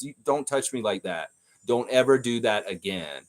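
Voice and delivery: a calm, firm boundary; quoting a player calmly telling his coach off. Retold or imitated. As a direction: set the limit without any heat. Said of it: "He said it very calmly".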